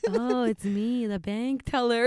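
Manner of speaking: drawn-out, lightly creepy caller voice; hint of a creep on the phone; creepy guy. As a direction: tease it like a creepy stranger. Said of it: "some creepy ass shit like that".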